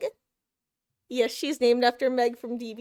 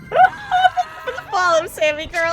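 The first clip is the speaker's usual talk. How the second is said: much higher and louder, slow and drawn out; delighted thanks; 11 semitones higher, 12 dB louder, slower than usual. Real, not acted. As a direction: gush your thanks to a friend in chat.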